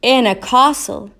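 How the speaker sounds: the clown hopefully guessing his home. A narrator's reading. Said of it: "said the clown hopefully".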